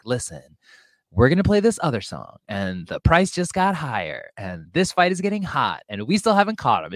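lightly imitated radio host; swooping, coded announcement to all listeners; radio operator. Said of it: "radio message to all assassins".

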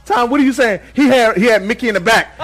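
ordinary talk, nothing marked

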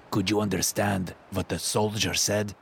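put-on Russian accent. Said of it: "soaked in a thick Russian accent".

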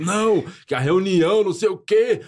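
slow put-on lament; mock complaining. Mocking people who tell sad stories, slow mock lament. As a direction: act out an overblown whinge.

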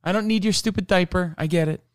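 imitating a friend refusing a diaper; mock protest. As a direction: brush off the gift in a high huffy voice. Imagined Shannon protesting the diaper.

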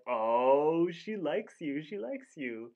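teasing cartoon "ohhh"; high singsong taunt, opening on a loud drawn-out oh; Rigby. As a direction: imitate a teasing chant. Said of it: "yeah, he says, like".

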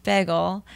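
"Bagel" with the first vowel toward "bag"; short first vowel on "Bagel"; unusual vowel in bagel. Shown as a demonstration. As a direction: say "Bagel" like "beg-el". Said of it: "criticized for how I say".

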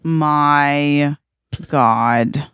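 each word stretched long; slow, exasperated groan of disbelief; drawn-out dismay. Real, not acted. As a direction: stretch it out, aghast at the twist. Listener dismayed at the plot twist.

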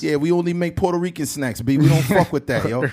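mock New York bodega guy; New York accent. Bodega New Yorker turning down snacks, mock New York accent. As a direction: send up a brash New Yorker. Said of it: "niggas in New York would be like".

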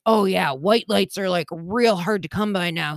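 a hint of a laid-back store clerk, barely changed from her own voice; imitating store clerk. Retelling the Value clerk for her friend, a faint mock clerk voice. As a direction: lightly play the casual clerk shrugging it off. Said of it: "This is my imitation".

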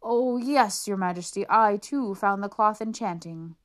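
please the emperor at any cost; fawning courtier. Acted. Officer flattering the emperor.

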